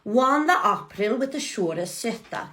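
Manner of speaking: "søta" said as soo-tah with Norwegian vowels; "Wan the April" read in Chaucer's old sounds; Middle English pronunciation. Shown as a demonstration.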